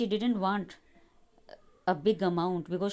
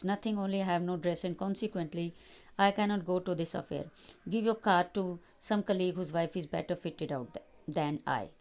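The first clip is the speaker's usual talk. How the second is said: calm voice. Acted. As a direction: hold back the sobs, speak calmly. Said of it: "responded in a calm voice".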